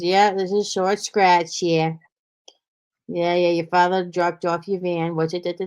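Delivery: imitated phone caller with a New England accent; retold call in Boston-area accent. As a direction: drop the R's like a Boston-area mechanic. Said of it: "the Bostonian accent".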